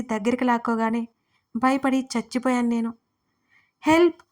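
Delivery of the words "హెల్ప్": louder, higher yell; raised-voice, alarmed shout; shouted cry for help. A narrator's reading. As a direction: call out sharply for help. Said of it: "గట్టిగా అరిచాను".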